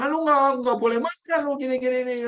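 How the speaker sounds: mock scolding. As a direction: scold someone for getting angry, half-play. Quoting what not to say.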